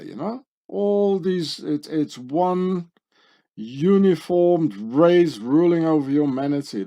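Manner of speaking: rising alarm as each symbol turns up; excited. Real, not acted.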